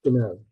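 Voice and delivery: 'do you know' run together as one word; linked words. Shown as a demonstration. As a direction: blend 'do you' into a quick 'd'you' before 'know'. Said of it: "native speakers do is they are combining words".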